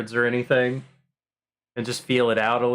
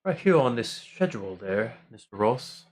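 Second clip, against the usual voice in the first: put-on British accent. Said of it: "That's my Soupskin impression".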